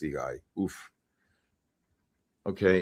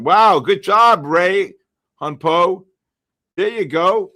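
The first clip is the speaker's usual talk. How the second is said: excited praise; 8 semitones higher, 8 dB louder, slower than usual. Real, not acted. Congratulating chat members warmly.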